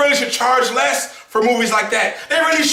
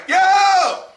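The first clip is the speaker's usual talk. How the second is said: hype shout; 10 semitones higher than usual. Retold or imitated. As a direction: holler at the screen in delight. Cheering at the screen.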